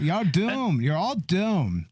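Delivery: Tommy as Crazy Ralph. Retold or imitated. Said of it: "It's like".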